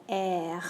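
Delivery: "R" named as the French letter. Shown as a demonstration. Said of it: "To say the letter of the alphabet".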